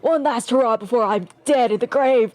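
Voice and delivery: put-on a self-pitying old veteran rambling; very old man. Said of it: "let me get my old man voice".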